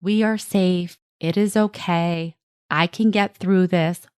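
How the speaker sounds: calm, measured inner voice; self-soothing. Shown as a demonstration. Parent talking to themselves during a child's meltdown, soothing. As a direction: reassure yourself steadily and gently. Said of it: "Use your internal voice to self-soothe".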